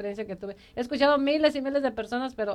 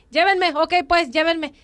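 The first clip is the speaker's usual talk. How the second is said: louder, huffy giving in; retold angry surrender; 3 semitones higher, 4 dB louder, slower than usual. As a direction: give in crossly, acting out the anger. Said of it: "Llegué bien enojada al retiro".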